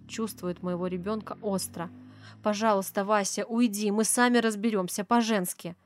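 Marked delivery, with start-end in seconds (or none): 2.4-5.7 firm, louder order to leave; sharper, a touch threatening. Acted. Wife firmly orders her husband out, a touch threatening. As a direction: send the husband away with a hint of menace. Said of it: "тон становится более резким и угрожающим".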